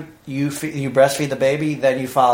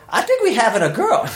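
imitating wife; 8 semitones higher than usual. Imitating his rattled wife.

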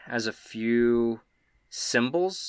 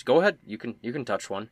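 Quinn; 2 semitones higher, 3 dB louder than usual. Acted. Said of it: "and he says".

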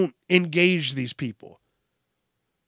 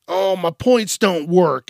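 whiny customer; 3 semitones higher, 6 dB louder, slower than usual. Retold or imitated. Mimicking angry customer.

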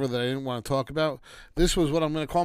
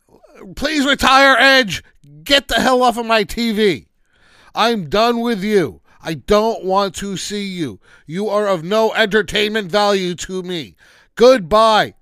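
loud, much higher yelling at the TV; fed-up shouting at Edge; 5 semitones higher, 10 dB louder than usual. Real, not acted. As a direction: shout him off your screen, done with him. Calls out Edge through TV.

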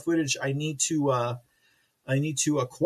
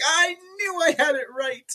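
mock triumph; 11 semitones higher than usual. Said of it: "And I was like".

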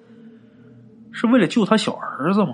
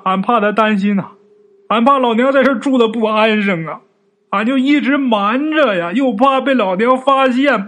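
crying while telling; 4 semitones higher than usual. Acted. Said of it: "人哭的都不行了".

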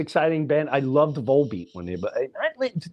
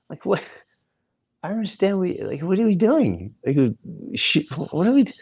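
higher, rambling and unsure like a clueless band member; confused band guys; 4 semitones higher than usual. Retold or imitated. Band members explaining the gig to the comic, mock confused and higher. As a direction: mimic a lost band guy fumbling for what they want. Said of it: "They're like".

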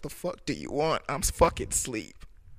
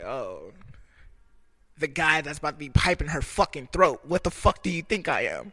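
retold angry comeback; 5 dB louder than usual. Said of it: "I was like".

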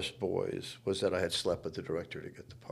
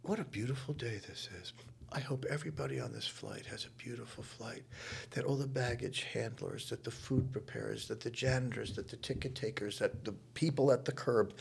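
quiet; 4 semitones higher, 5 dB quieter than usual. Retold or imitated.

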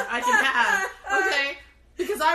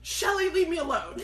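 exasperated mom; 5 semitones higher than usual. Retold or imitated. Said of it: "And she's like".

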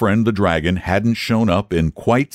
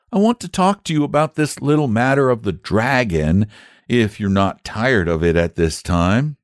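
put-on polite child; 3 semitones higher than usual. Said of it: "said the boy politely".

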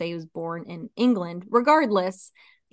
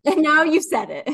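laughing echo; 6 semitones higher, 6 dB louder than usual. Real, not acted. Echoing co-host, laughing.

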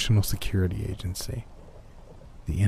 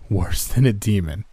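choked out. Acted. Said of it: "I choked out".

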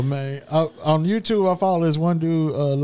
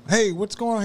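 manager voice; 5 semitones higher than usual. Retold or imitated. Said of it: "the manager's like".

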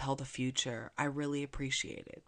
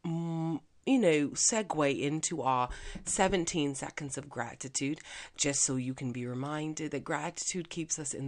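put-on British accent. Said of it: "now my British accent is starting to sound a little Australian".

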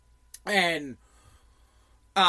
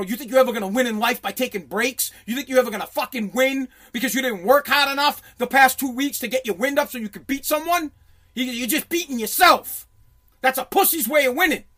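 mildly raised, retold scolding; coach ripping into someone; 3 semitones higher, 3 dB louder than usual. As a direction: imitate an angry coach's dressing-down. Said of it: "He fucking rips me".

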